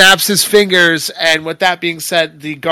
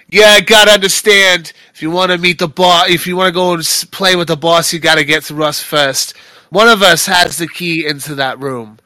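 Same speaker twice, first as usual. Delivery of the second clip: tough guard; 5 dB louder, faster than usual. Acted. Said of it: "The guard's like".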